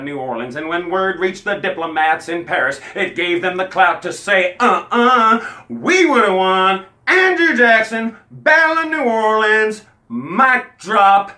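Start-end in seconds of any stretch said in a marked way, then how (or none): 4.6-11.3 louder, higher gloating boast; gloating brag. Acted. American diplomats boasting to the British, loud gloating brag. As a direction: rub the win in their faces.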